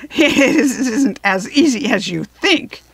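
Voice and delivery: slow, mocking character voice with laughter; harsh, laughing taunt. A narrator's reading. Hammerhead mocking the tumbled Scarecrow, harsh laughing taunt. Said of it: "laughed harshly as he said".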